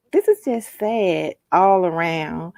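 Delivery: echoing phone call audio; phone line echo. Real, not acted. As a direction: voice bouncing back on the line. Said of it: "I'm getting an echo".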